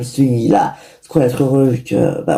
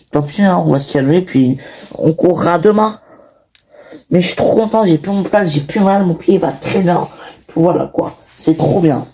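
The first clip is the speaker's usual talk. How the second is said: put-on 1 excited child; 2 semitones higher than usual. Child voice continues.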